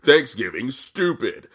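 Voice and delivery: lightly mocked heel promo; a hint of sneering stock bad guy; generic heel. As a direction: parody a wrestling villain's cheap insults. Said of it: "generic heel".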